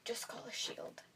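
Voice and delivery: very soft, near-whispered cool aside; hushed, nonchalant quote; cool, offhand. Retold or imitated. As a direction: toss it off quietly, imitating someone too cool. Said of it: "And walks away all cool".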